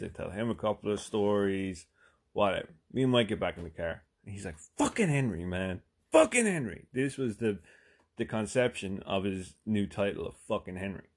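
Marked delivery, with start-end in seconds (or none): 4.8-6.9 retold exasperated cursing, pitched up. Friend venting in the car about Henry, exasperated. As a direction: curse him like a fed-up friend.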